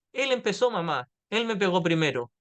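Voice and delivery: lightly voiced tattling kid; a hint of a child complaining to mom; whiny child. Niño acusando al hermano ante mamá. (niño acusando a su hermano ante mamá, tono quejumbroso leve)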